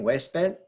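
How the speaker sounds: huésped stressed on hués-, not -ped; Spanish huésped, leaning on the opening syllable; stress on first syllable. Shown as a demonstration. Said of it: "it should be on the P E D syllable".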